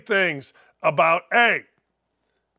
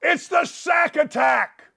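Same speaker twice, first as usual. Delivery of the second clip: hype; 5 semitones higher than usual. Real, not acted. Hyping his pick.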